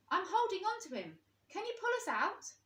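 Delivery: high, loud excited squeak. A narrator's reading. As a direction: squeak it out in delight. Rabbit excited under the bed.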